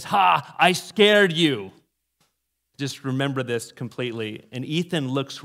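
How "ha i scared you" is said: loud, triumphant gotcha; gloating fifth-grade boy. Retold or imitated. Fifth grader taunting his kindergarten victim, gloating. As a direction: crow it like a kid who got you. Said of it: "pulls his mask aside and says".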